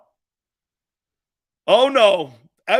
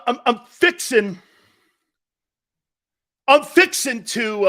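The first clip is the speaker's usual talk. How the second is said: louder, high mock Texas drawl; imitating wife's Texas drawl; 6 semitones higher, 8 dB louder than usual. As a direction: lean into the fixing to like a Texan.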